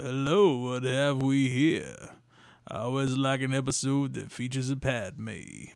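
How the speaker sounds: put-on smooth-talker voice. Doing Star Wars impressions, a bad Lando impression. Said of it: "a bad Lando impression".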